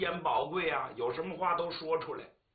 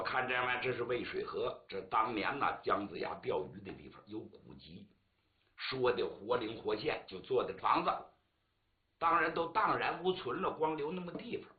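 a lower, casual guide's patter; tour guide; 3 semitones lower than usual. Retold or imitated. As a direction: show tourists the spot. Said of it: "有人跟您说". (导游介绍景点的口吻)

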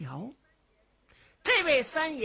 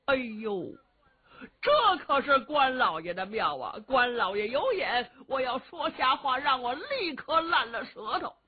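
crocodile tears; 3 semitones higher than usual. Acted. Cheng Yaojin fakes tears before elders.

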